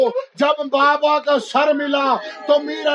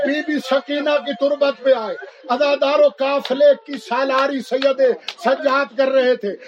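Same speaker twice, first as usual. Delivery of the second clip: sorrowful sermon storytelling in measured phrases; solemn Urdu majlis oratory; majlis lament narration. Real, not acted. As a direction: recount the tragedy to mourners.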